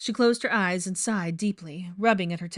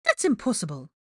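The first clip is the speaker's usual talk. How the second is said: slightly raised, shocked protest; mildly hammed-up shock; dramatic disbelief; 3 semitones higher, 3 dB louder than usual. A narrator's reading. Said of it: "she gasped dramatically".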